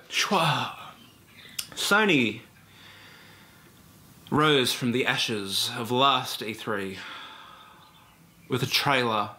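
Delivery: slow, overblown mock journalist voice; pretentious games journalist. Mocking games journalists' E3 rundowns, slow pompous parody. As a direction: drawl it like a self-important games writer. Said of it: "For very postmodern".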